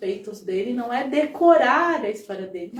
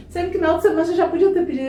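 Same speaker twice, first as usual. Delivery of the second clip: fast, higher, louder exasperated rush; indignant mother; 7 semitones higher, 6 dB louder, much faster than usual. Retold or imitated. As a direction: rattle it off like a baffled mother. Retold mother questioning Gandhi. (mãe indignada, rápida e mais alta)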